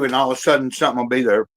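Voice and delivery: talking through a mouthful; words round a bite of food; mouth full. Real, not acted. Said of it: "I'm trying not to talk with my mouth full".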